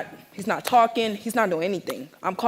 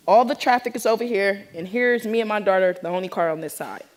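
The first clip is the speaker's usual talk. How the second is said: normal talking voice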